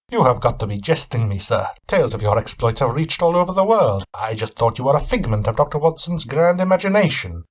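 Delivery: a touch of guarded suspicion; Van Helsing. Acted. Weary traveller answering his host, lightly voiced wary reply.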